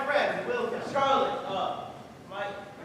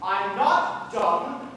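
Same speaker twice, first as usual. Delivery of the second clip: slow defiant retort; 4 semitones lower, much slower than usual. Acted. Stranger insists he can hear.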